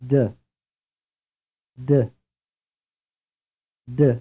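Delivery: American-accented "duh", tongue on the gum ridge; American "duh" for Italian da. Shown as a demonstration. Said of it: "Said with an American accent".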